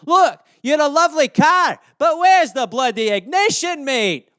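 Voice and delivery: exasperated Scot pressing the point; Scottish accent. Acted. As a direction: rattle off insults as an animated Scot. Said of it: "some Scottish euphemisms for you".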